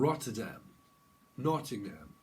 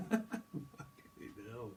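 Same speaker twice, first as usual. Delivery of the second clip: laughing; 8 dB quieter, much slower than usual. Real, not acted.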